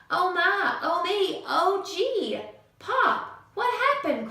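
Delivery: put-on alarmed child calling out to his dad; crying out. Junior cries out to his pop about the missing tree, high and loud. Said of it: "cried Junior".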